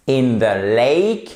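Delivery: slow "lake" with a long ay glide; drawn-out model of "lake", diphthong held; stressed diphthong in lake. Shown as a demonstration. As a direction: stretch out the vowel of "lake". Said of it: "vous avez la même diphtongue".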